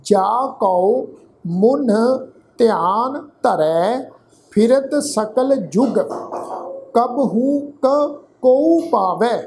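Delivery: slow, measured Gurbani reading; scripture recitation. Shown as a demonstration. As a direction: recite line by line with drawn-out syllables and pauses.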